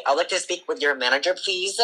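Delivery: fast, lightly voiced entitled customer; entitled Karen. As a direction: demand the manager. Karen-style entitled complaint.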